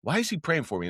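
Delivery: high-pitched mock exasperation; retold indignation. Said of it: "I would get mad".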